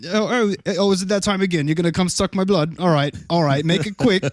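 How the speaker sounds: weary, put-upon victim; resigned victim. Acted. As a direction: sigh it like a tired regular victim. Victim resigned to vampire visit.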